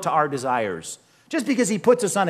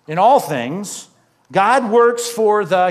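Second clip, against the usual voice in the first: louder and slow, each word weighted; emphatic slow reading; 3 semitones higher, 6 dB louder, slower than usual. Shown as a demonstration. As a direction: build toward the key word, slowly. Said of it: "here's our word".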